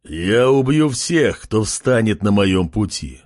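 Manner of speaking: slow, heavy threat; menacing. Acted. King threatens the pig tribe, slow menace. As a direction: lean on every word like a warlord. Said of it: "грозно произнёс".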